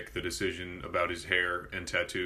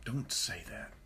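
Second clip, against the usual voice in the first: preachy scolding; 2 semitones lower, 4 dB quieter than usual. Retold or imitated. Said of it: "one of those people that goes".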